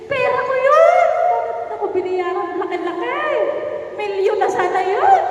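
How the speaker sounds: hammed-up outrage over a debt; mock angry rant. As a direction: rant like someone owed money. Acting out a resentful debtor.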